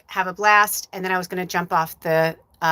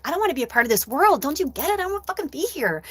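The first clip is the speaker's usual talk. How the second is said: desperate plea; 8 semitones higher, faster than usual. Retold or imitated. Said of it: "I was just like".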